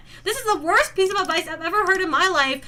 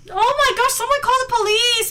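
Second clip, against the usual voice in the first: raised, hammed-up alarm; high-pitched mock indignation; mock outrage; 6 semitones higher, 4 dB louder than usual. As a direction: cry out for help in mock panic. Mock panic, calling the police.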